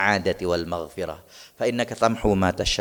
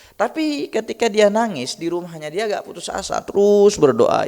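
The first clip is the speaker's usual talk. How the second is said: higher, louder, building fervor; climbing louder, fervent preacher; rising preaching; 8 semitones higher, 4 dB louder than usual. Real, not acted. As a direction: swell into a passionate sermon cry.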